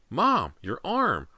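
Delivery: put-on high, drawn-out girl's exclamation; alarmed cry. A narrator's reading. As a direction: cry out at your mother's injury. Daughter sees mother's broken arm.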